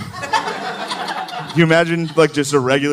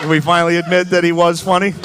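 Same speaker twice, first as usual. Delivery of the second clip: shouted rallying question; shouting; 4 semitones higher than usual. Real, not acted. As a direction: bellow the question at the crowd. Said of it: "I don't like the tone of that".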